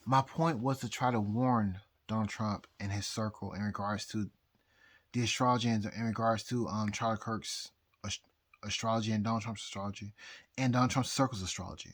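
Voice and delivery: tipsy, loose delivery. Real, not acted. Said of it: "I'm so drunk right now".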